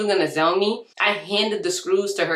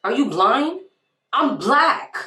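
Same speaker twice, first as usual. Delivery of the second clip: high-pitched, incredulous comeback; 8 semitones higher, 5 dB louder, slower than usual. Retold or imitated. Seller answering the buyer's accusation, incredulous. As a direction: pitch it way up, louder on the last words.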